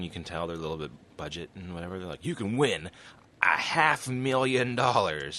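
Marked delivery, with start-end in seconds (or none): 2.2-5.4 mock announcer hype. Cheap show host announcing prize.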